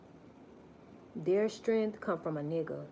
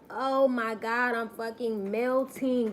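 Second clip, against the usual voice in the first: mock melting wail; 3 semitones higher, slower than usual. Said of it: "they're gonna be like".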